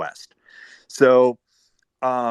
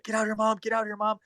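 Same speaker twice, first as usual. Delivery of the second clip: put-on high-pitched kid voice urging mom outside; imitating her son; 13 semitones higher, 4 dB quieter than usual. Son urging his mom to come see, high kid voice. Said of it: "her son's like".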